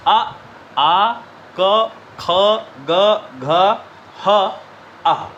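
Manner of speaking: letters spaced out one by one; sounding out letters. Shown as a demonstration. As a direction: sound each letter clearly. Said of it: "फिर से एक बार revision कर लीजिए". (एक एक वर्ण अलग से बोलना)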